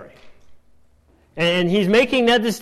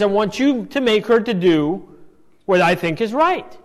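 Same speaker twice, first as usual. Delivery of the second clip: demanding; 3 semitones higher, 4 dB louder than usual. Acted. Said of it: "her demand".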